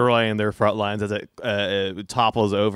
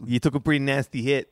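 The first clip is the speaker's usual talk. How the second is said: put-on Boston accent; 2 semitones higher than usual. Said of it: "keep this accent up".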